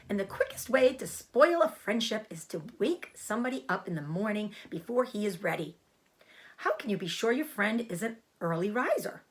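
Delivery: put-on an old sheep putting a young pig in his place; lecturing old sheep. Oldest sheep lectures Wilbur.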